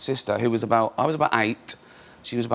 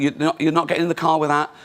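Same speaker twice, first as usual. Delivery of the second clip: put-on laughing while speaking, pitched up; 5 semitones higher, 3 dB louder than usual. Retelling a sister's protest while being chased, imitating her laughing while talking. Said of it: "she's laughing and going".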